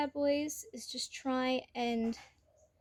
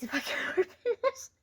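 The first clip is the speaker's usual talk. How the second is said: straining effort; 3 semitones higher than usual. Real, not acted. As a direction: push the words out while twisting a stuck lid. Straining to open a jar.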